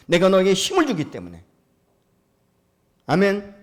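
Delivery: loud, high, ringing exhortation to the congregation; preaching at full force. Acted. Pastor rousing his congregation to name their dreams, full-force preaching. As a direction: call out the challenge with full preacher's fire.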